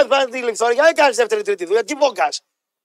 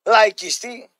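usual speaking voice

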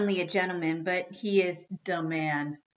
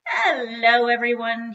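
loud, higher sing-out greeting; cheerful; 5 semitones higher, 10 dB louder than usual. A narrator's reading. Dad coming home in an unusually cheerful mood, loud cheerful greeting. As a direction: call it out in high good cheer. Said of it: "he said cheerfully".

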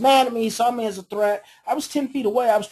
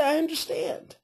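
calm understanding; 5 semitones higher than usual. Shown as a demonstration. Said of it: "how I am saying it is exactly how I would say it".

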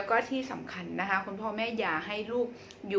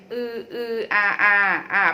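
imitated baby cooing; 7 dB louder than usual. Shown as a demonstration. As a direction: demonstrate a baby's little vowel noises. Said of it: "จะทำเสียงอือ อือ อา อา".

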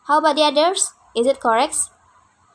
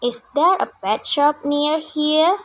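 slow, rising end on "here?"; corrected intonation; 3 semitones higher, slower than usual. Shown as a demonstration. Teacher corrects Vika's question intonation, slow and rising. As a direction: show the student the right tune. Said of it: "intonasi Vika salah ya. Kita benerin".

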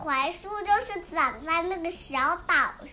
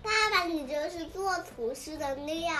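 laughing; 3 dB quieter than usual. Real, not acted. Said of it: "妹妹也笑了".

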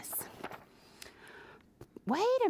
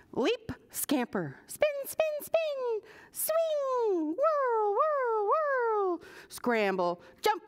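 much higher, rising excitement; excited play-by-play; 13 semitones higher, slower than usual. A narrator's reading. Reader to children, squirrel spinning through the course, excited. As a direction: call each move like a thrill ride.

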